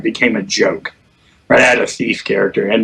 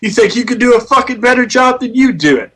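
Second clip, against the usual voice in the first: much higher, indignant mock retort; imitating defensive leader; 10 semitones higher than usual. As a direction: snap back like a miffed raid leader. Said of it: "He's like".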